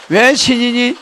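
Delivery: fast and loud, pushing for agreement; preacher's call for a yes; rallying shout. Real, not acted. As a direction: drive the question home to the crowd.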